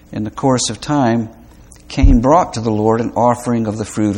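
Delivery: measured, deliberate reading of scripture. Acted. Pastor reading Genesis four to the congregation, solemn and measured. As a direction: read the passage with solemn weight. Reads the Genesis passage aloud.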